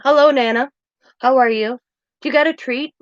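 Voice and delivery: light mock child voice; imitating little grandson. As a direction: chirp it like a small boy at Nana's door. Grandson voiced greeting Nana.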